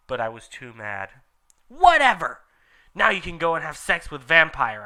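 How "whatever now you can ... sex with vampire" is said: high, loud dismissal; angry shout. Acted. Heroine rejecting Draco, loud high angry shout. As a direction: snap it and storm off. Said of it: "I shouted".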